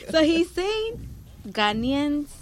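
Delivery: amused, half-laughing report. Real, not acted. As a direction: giggle your way into the news. Laughs while reporting the quote.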